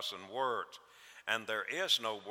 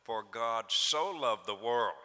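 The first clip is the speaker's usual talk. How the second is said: For God "so" loved the world, with so leaned on, slow and louder; stress on so; 4 dB louder than usual. Shown as a demonstration. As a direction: linger on "so" and let it swell. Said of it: "we ought to emphasize that little word, so".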